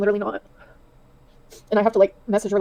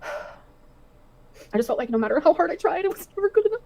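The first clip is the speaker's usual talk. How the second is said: choked up, climbing much higher; real tearful voice; 8 semitones higher, slower than usual. Real, not acted. Woman admits she never felt good enough, tearful. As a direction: voice rising slowly into tears. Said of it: "when the tears were gonna come back in".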